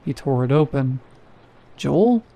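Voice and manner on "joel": much higher, sharply rising call of his name; urgent second call. Acted. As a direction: call "Joel?" again, alarmed and pitched way up. Calling Joel again, more urgently.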